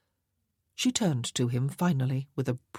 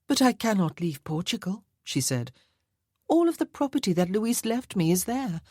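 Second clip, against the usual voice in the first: higher, coquettish lady's voice; a vain society lady teasing about her wealth; playful marchesa; 6 semitones higher than usual. Acted. Jeanne teasing the colonel about her wealth, in a higher playful lady's voice.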